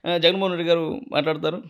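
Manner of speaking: lightly voiced politician giving thanks; political speech impression. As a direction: address the stage with grateful formality. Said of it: "Chandrababu సార్ది imitate చేస్తా".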